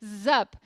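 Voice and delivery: "zup" with a buzzing z, drawn out; slow demo of "zup", z not s; Z sound pronunciation. Shown as a demonstration. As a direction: stress the z at the start of "zup". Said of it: "escrito sup, mas é zup".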